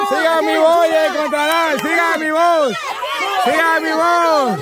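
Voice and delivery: insistent, repeated guiding call. Real, not acted. Host telling searchers to follow, calling out. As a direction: call the searchers toward you, stretching the last word.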